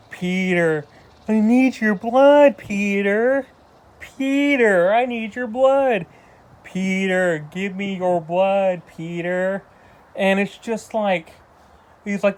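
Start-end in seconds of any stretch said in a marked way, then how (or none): 0.1-9.6 whiny Harry impression. Reviewer redoing his Harry Osborn impression, slow whiny drawl. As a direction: stretch each Peter into a pleading moan. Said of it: "I'm gonna do a better impression".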